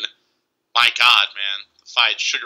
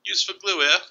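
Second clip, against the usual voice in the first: high, soft mock Northern Irish accent; 6 semitones higher, 4 dB quieter than usual. Podcaster imitating Use for Glue for friends, mock Northern Irish accent. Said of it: "I used to try to mock Use for Glue".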